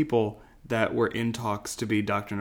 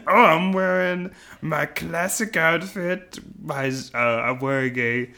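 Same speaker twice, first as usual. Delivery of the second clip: high, slow cartoon European accent; Gru; 5 semitones higher, slower than usual. Host takes his turn describing his outfit, cartoon European-accent impression. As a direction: draw the words out in a put-on European accent. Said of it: "Ross, your turn".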